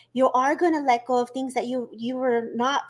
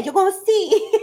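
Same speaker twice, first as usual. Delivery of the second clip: laughing; 7 semitones higher, 5 dB louder than usual. Real, not acted. Repeats it, now laughing.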